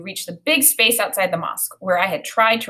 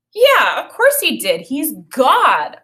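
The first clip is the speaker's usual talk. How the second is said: higher, louder know-it-all "of course"; impatient child stating the obvious; well, duh voice; 5 semitones higher, 4 dB louder, slower than usual. Acted. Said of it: "I said in my well, duh voice".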